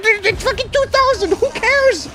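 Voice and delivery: retold outraged rant at a clueless teammate; shrieking rant with laughter. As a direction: rant until you crack up. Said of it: "And it's like".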